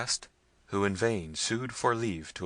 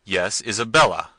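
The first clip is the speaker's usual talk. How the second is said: loud, commanding cry of the name; a prince demanding, not asking; imperious cry; 11 dB louder than usual. A narrator's reading. Manfred demanding Isabella from his wife, imperiously loud. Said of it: "cried Manfred imperiously".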